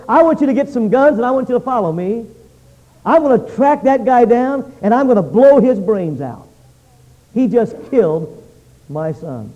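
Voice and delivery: rally them to hunt him down; enraged father. Acted. Father calling friends to grab guns, mildly enraged.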